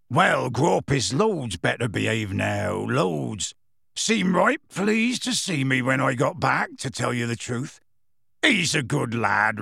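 put-on slow country-accented giant of a man; fond, rambling rustic voice with dropping ends; rustic gamekeeper. A narrator's reading. Gamekeeper chatting about his giant relative, fondly.

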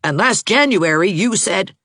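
high, indignant tirade; heated accusation. A narrator's reading. Heated lovers' quarrel, accusing.

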